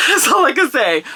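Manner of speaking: laughing it out, teasing; laughing as if holding back a secret. Real, not acted. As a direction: giggle through a coy tease. Coy laugh after teasing review.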